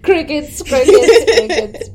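high chirpy cricket voice; cartoon cricket chirps. Crickets for silence.

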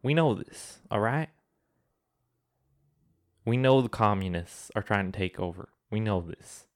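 light put-on Southern accent, ranting; a hint of a Southern accent for a mock rant. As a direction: play a Southern conspiracy ranter in a mild Southern accent. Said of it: "talking in a Southern accent".

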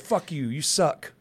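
mock insult breaking into a laugh; cheeky put-down, cracking up at the end. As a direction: say it as a joke, laughing on suck. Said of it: "I said".

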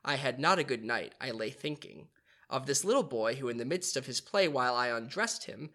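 measured read-aloud narration; story narration. Acted. Narrator reading Peter Pan to the others, storytelling voice.

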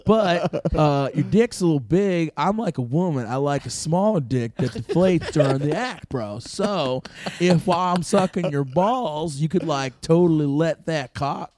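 lightly voiced surfer bro drifting Southern; a hint of a laid-back surfer dude. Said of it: "Let's hear everybody's best surfer, bro".

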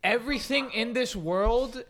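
lightly hammed-up Cuban old man bitching; stereotypical Cuban grandpa. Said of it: "Give us stereotypical Cuban grandpa".

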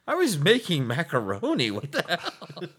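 annoyed neighbor voice; grumbling guy. Retold or imitated. Voicing the neighbor.

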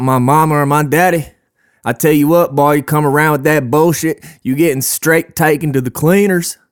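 lightly put-on Southern accent. Podcaster warning off anyone insulting his parents, mock Southern accent. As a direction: slip into a mock Southern threat. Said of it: "I'm doing a southern accent".

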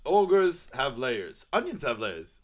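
very slow, lightly voiced Shrek. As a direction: spell it out slowly like a fed-up ogre. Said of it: "Shrek's not one of my stronger voices".

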